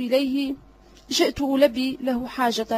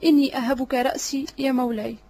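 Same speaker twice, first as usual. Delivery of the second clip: each word weighted deliberately; slow, stressed. A narrator's reading. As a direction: lean on every word of "إني أهبك رأسي". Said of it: "لهجة بطيئة مع تشديد على الكلمات". (ببطء مع تشديد كل كلمة)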